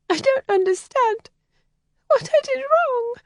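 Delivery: put-on a sheltered girl close to tears; upset young lady. Helen confides in Kathleen, high and distressed.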